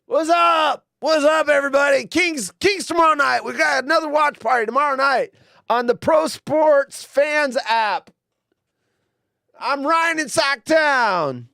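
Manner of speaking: loud, high hyped radio DJ; radio host voice. Retold or imitated. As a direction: pump it up like a sports radio host. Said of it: "There's my Rhino impression".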